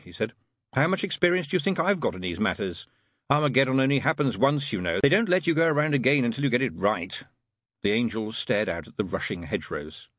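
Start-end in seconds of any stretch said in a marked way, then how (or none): 0.7-7.2 higher, animated demon voice; lightly voiced demon making his case; demon character, impatient. Demon answering the angel about Armageddon, lightly voiced impatience.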